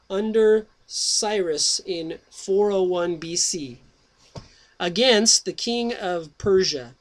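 slow, deliberate reading voice; slow reading aloud. Acted. Host reads Menon's history to his listeners, slow and deliberate. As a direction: read each phrase out slowly, with weight.

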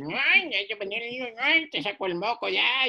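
high, hurried panicky voice; frantic rushed nurse. Retold or imitated. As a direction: rush it like a flustered nurse. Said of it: "entrábamos y así". (enfermera apurada y nerviosa)

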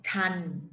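"Tan" held level in a mid tone. Shown as a demonstration. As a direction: keep "Tan" flat and even. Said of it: "tan is the mid tone". (Tan on a level mid tone)

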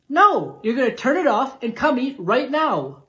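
loud, scolding mother; angry mom yell. Acted. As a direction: order the kid to dinner sharply. Angry mom demands kid come.

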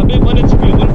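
urgent high yell; excited shout. Real, not acted. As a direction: yell it in a rush. Enemy one hp, urgent.

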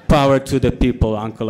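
talking through a mouthful of cake; gloating with a full mouth. Retold or imitated. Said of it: "I said with my mouth full".

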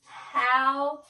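word by word, HOW drawn out; slow exaggerated enunciation. Real, not acted. Partner still guessing wrong, slow exaggerated enunciation. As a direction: stretch each word for a lip reader. Repeats it for lip reader.

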